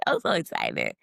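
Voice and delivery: I'm so excited dropped very low; comic bass voice; deep mock voice. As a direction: growl it out like a big man. Repeats line in two voices.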